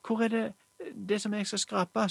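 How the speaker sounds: lyst og ivrig, litt høyere; spør andpusten etter å ha løpt inn; ivrig barnestemme. Acted. Jenta kommer farende, spør ivrig. (jenta kommer farende og spør ivrig med lys stemme)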